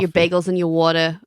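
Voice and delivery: light Philly accent demo. Shown as a demonstration. Showing what Philly sounds like, Philly accent. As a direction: give the vowels a Philly sound. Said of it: "what does a Philly accent sound like".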